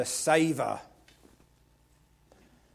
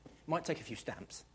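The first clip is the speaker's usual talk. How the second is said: hushed command; 12 dB quieter than usual. Acted. Preacher urging the church to crush sin, whispered. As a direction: drop to a whisper, stamp it out.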